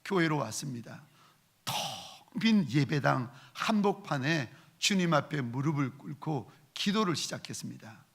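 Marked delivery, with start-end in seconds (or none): none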